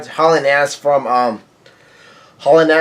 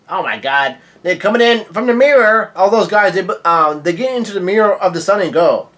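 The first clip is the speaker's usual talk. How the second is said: real surprise; 4 semitones higher than usual. Real, not acted. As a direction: voice climbs in astonishment. Startled reaction to the story twist.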